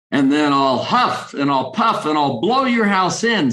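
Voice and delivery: a lightly voiced wolf threatening the pig; big bad wolf. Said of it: "said the wolf".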